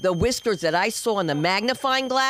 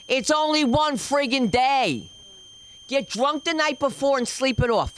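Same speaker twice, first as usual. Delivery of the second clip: exasperated pleading; 2 semitones higher than usual. Acted. Mock pleading with women in audience.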